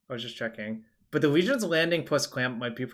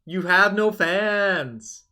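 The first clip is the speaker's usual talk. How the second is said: wrestling promo; 6 semitones higher, 5 dB louder, much slower than usual. Acted. Mock trash talk at streamer.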